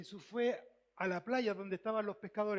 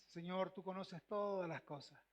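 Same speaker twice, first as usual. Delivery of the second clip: softer, lower and humble; humble soft answer; 4 semitones lower, 7 dB quieter than usual. Acted. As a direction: answer like a man ashamed. Peter answers Jesus humbly. (respuesta humilde, más suave y grave)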